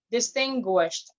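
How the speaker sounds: "distinguished" said slowly, ending on a T sound; final T pronounced. Shown as a demonstration. Speaker showing club members pronunciation, final T in "distinguished". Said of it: "pronounce the final sound T".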